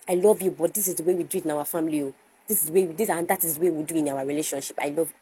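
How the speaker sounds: rattled off quickly as a mock demand; insistent partner. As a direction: run through the house rule in a hurry. Acts out a domineering partner.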